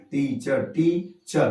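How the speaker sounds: टीचर broken into टी and चर; two syllables. Shown as a demonstration. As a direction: give टीचर in two distinct beats. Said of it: "तो ये दो syllable हुआ". (टीचर को टी-चर तोड़कर)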